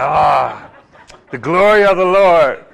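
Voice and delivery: laughing mock awe, loud. Preacher acting his own delight at the glory. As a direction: burst out laughing in fake wonder.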